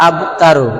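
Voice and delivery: আবতারু with the ব released clearly; আবতারু, the ব given its single sound; tajweed demo. Shown as a demonstration. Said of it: "তাহলে বয়ের একক ব".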